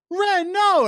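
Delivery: high, loud yelp of dismay; mock anguished shout; shocked cry. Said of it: "and it's like".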